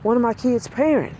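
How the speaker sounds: high, bubbly gushing; excited secretary. Retold or imitated. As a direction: gush like a thrilled school secretary. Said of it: "she was just so excited".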